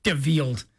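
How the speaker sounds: DeVilled said low, stressing VILL like the robot; deadpan DeVilled; flat robot mispronunciation. Retold or imitated. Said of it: "Robot, get it together".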